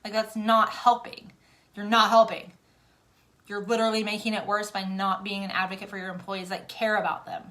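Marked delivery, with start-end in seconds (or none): 0.0-5.4 loud, stress on not; indignant scolding. Real, not acted. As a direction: scold them firmly. Scolding employer.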